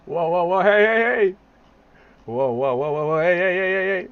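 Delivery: loud, rising alarm; excited yelling. Real, not acted. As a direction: shout it out in shock. Yelling whoa hey at video.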